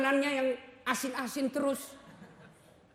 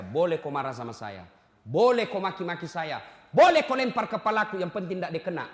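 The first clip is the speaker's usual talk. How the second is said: retold words to wife; 4 semitones lower, 5 dB louder than usual. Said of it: "Saya bilang sama istri saya".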